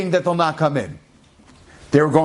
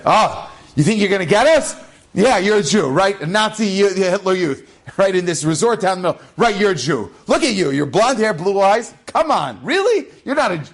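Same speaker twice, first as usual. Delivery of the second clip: higher, sneering jeer; mocking disbelief; 5 semitones higher than usual. Russian soldier mocking a blond prisoner's claim, higher jeering disbelief. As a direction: scoff at him like he's lying.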